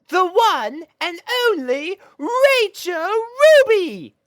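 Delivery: high, loud, grand mare voice; proud fashionista. Acted. Rarity telling Spike about her client, high grand proud voice. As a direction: savour the famous name.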